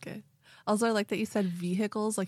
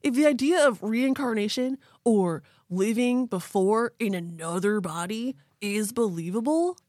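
laid-back surfer bro; Keanu surfer voice; 2 semitones higher than usual. Acted. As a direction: chill it out like a beach dude. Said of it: "I'm channeling Keanu".

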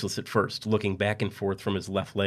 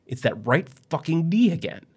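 high, slow whine; whiny complaint; 9 semitones higher, 3 dB louder, slower than usual. Acted. Husband in hospital whining about his itchy knee.

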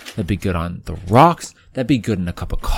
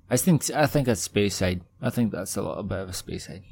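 mild put-on Scottish accent; a touch of Scots; 4 dB quieter than usual. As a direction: muse aloud in a light Scottish accent. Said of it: "That sounds a bit more Scottish".

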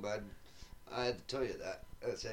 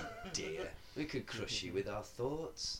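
a hint of a low alien voice; lightly voiced giant creature, lower; giant alien booming voice; 3 semitones lower, 5 dB quieter, slower than usual. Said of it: "Puny humans".

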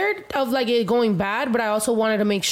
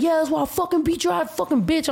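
higher-pitched mock tirade; retold cussing out; 5 semitones higher than usual. Imitating a tall dude cussing her out, mock angry. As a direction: imitate someone cussing you out. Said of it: "cussing me out".

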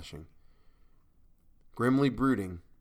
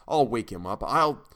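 louder, rising outburst cut short; agitated resolve; 6 dB louder than usual. A narrator's reading. Narrator vows to rouse a colleague, loud and agitated. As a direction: build sharply, then break off.

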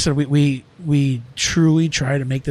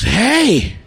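loud, high "hey" to cut someone off; retold confrontational shout; 7 semitones higher, 5 dB louder than usual. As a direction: imitate an employee yelling back at the boss. Acted kitchen argument, employee confronts boss.

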